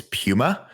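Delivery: "Puma" with a "pyoo" first syllable; British Puma. Shown as a demonstration. Co-host mock-correcting Americans, "Puma" said "PYOO-muh". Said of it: "Can we just correct all these".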